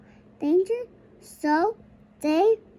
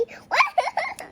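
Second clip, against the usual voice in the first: child mimicking crying; 12 semitones higher than usual. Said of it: "She say".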